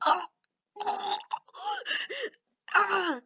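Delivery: high, separated gasps of pain; pained groans. Acted. Aizawa lying on the ground, pained moans. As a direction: let out little hurt cries. Acted hurt man on ground.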